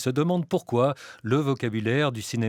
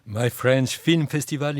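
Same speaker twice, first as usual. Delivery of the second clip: "My French Film Festival" said slowly, word by word; careful tongue-twister; slower than usual. Real, not acted. Host attempting the tricky English festival name, slow and careful. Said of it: "j'ai réussi à le dire".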